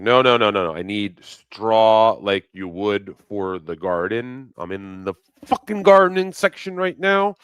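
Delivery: mock exasperated protest to a clerk; exasperated correction. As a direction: push back harder, voice climbing.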